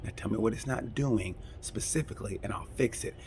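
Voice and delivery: soft, quiet and soothing; a mechanic speaking quietly to calm the rider. Retold or imitated. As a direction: settle an upset rider down gently. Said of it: "the mechanic said".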